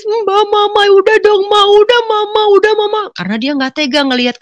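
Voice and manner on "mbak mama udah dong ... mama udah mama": very high, loud imitated wailing; crying plea. Younger siblings begging mother to stop, wailing plea. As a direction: plead like a sobbing younger sibling. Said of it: "Dia nangis".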